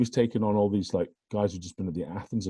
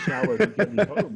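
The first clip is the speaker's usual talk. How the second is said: miserable athlete; 10 semitones higher, 5 dB louder than usual. Retold or imitated. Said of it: "you'd be like".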